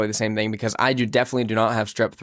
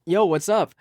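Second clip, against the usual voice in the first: brash bro hello, pitched up; mock aggressive greeting; 7 semitones higher than usual. The speaker re-enacting his phone greeting to Cody, brash. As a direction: punch out a pumped-up hello. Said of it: "he said it just like that".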